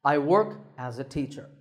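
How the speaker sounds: "I work as a teacher" dropping at teacher; falling tone. Shown as a demonstration. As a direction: pitch steps down on teacher to finish. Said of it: "goes down in pitch at the end".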